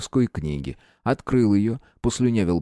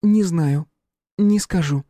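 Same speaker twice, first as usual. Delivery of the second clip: firm, raised-voice refusal; 9 semitones higher, 4 dB louder, slower than usual. A narrator's reading. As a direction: stand your ground, each word final. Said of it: "повторила твёрдо". (твёрдо)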